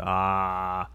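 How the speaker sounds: drawn-out "ah" on one level pitch; imitated "ah". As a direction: mimic the long drone at ordinary volume. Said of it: "what was that?".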